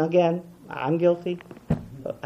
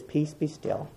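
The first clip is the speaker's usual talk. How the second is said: gentle calm; 11 dB quieter, slower than usual. Acted. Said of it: "When Jesus comes on your stormy seas and says".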